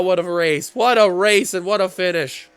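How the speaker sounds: breathless after the call; out of breath, winded. Real, not acted. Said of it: "I'm out of breath on that one".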